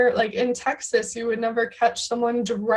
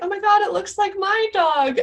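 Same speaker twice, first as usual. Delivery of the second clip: higher, bright burst of delight; excited squeal; 9 semitones higher than usual. Retold or imitated. Spotting a dog like her own in Paris, higher excited gasp. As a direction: gush like you spotted your own dog.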